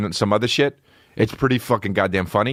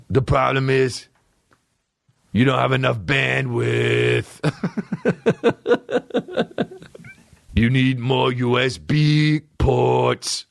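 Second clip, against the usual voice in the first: nerdy tech voice; 3 semitones higher than usual. Pretend. Mocking a rapper as Geek Squad.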